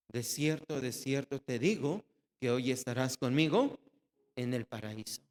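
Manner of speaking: tender promise. Acted. Same promise repeated, tenderly.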